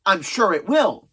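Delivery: mock-agreeing sarcasm; dry Hawkeye-style sarcastic reply. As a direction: agree without meaning a word of it. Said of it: "I love Hawkeye's sarcasm".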